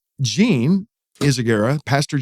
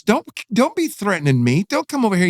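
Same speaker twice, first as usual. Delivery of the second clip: higher-pitched, insistent scolding; retold commanding warning; 6 semitones higher than usual. Pastor points at threatening prisoners, retold insistent warning. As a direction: imitate a pastor warning attackers off. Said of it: "he starts prophesying to these guys and pointing at them".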